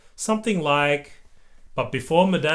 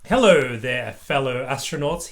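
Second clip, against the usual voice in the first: boomed; 3 dB louder than usual. Acted. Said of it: "he boomed".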